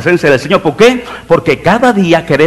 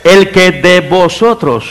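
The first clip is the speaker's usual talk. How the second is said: slow, measured scripture quote with weight; Jesus' solemn pronouncement; 4 semitones higher, 4 dB louder, much slower than usual. Retold or imitated. Preacher quotes Jesus answering the accusers, slow solemn pronouncement. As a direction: declare it slowly, word group by word group. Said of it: "dice que se enderezó y dijo".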